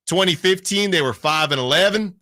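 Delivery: a light Southern country twang, a bit quick; country accent. Real, not acted. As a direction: drop into a folksy country accent without meaning to. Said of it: "I put a country accent on that".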